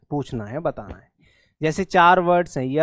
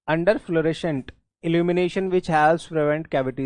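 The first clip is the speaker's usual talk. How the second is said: slow reading; much slower than usual. Real, not acted. Reads sentence slowly.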